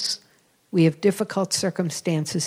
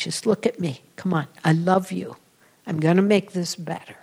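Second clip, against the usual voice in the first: tender remembered voice. Retold or imitated. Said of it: "I remember that image".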